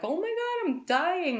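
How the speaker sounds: hammed-up little kid; panicking kid. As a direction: play the toddler crying out in panic. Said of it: "the kid is like".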